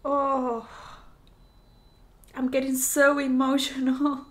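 really welling up over the song; starting to cry. Real, not acted. Viewer moved by the song, starting to cry. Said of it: "I'm already starting to cry".

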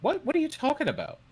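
high, loud baffled question; confused. Acted. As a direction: cry out in confusion. NPC crowd confused.

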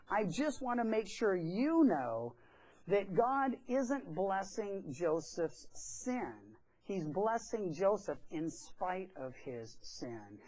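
sincere slowed preacher emphasis; earnest slow emphasis. Real, not acted. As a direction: press the point gently.

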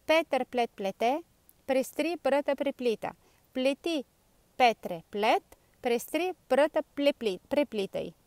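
un po' più svelto, ma ancora scandito. Shown as a demonstration. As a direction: prova a dirlo più in fretta. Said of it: "proviamo un po' più velocemente". (lo scioglilingua ripetuto un po' più velocemente)

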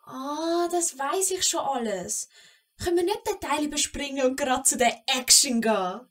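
put-on high, fast, pleading child's voice with a catch; a little goblin girl begging grandma for her favourite story; eager goblin girl.

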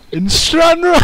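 high, loud Scottish cry; Scottish shout. Acted. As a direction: belt the town name like a Scot. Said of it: "repeating the bit".

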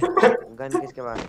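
very high, slow, stretched question; high drawn-out call. Real, not acted. Player calling out to squad for a gun, stretched high call. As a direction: sing it out high across the squad.

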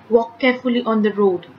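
firm command. Shown as a demonstration. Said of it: "It's a command".

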